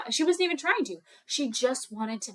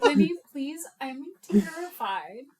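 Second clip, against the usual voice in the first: crying, terrified; 3 semitones higher than usual. Acted. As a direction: wail to your sister, then stretch out the fear. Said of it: "She's crying".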